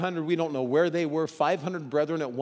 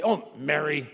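tender oh Mary. Shown as a demonstration. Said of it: "Did he say".

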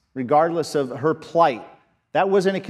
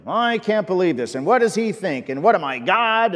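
mock whine, a bit higher; whining; 4 semitones higher, 4 dB louder than usual. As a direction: complain like a self-pitying king. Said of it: "He whined to those around him".

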